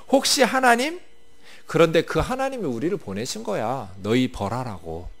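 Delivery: arrogant, taunting questions thrown at the enemy; a general's scornful taunt, voice rising on the jeers; mocking enemy general. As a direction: sneer like a boastful commander mocking the besieged. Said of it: "이렇게 말하는 것이죠".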